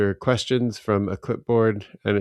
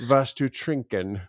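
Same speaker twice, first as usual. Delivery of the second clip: German flight attendant; 4 semitones higher than usual. Retold or imitated. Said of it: "she said".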